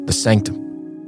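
slow hushed whisper. Pretend. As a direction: whisper it like a secret place. Building up secret inner circle.

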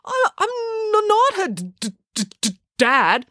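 put-on panicked boy stuttering his denial; stammering cry. A narrator's reading. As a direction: choke on the word dad. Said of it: "cried Joe".

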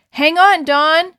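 high, loud desperate shout; frantic yell. A narrator's reading. Gordon to Dawn in the current, frantic yell. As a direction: yell over the rushing water. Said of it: "yelled Gordon frantically".

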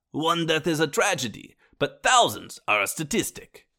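lightly put-on Russian-ish Stalin accent; mock Stalin accent. Narrator quoting Stalin in a half-hearted Russian accent. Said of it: "I don't know what accent that was".

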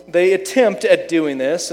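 slow down and emphasize "attempt"; stress on attempt. Real, not acted. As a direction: lean hard on the word "attempt". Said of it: "I emphasize the word attempt".

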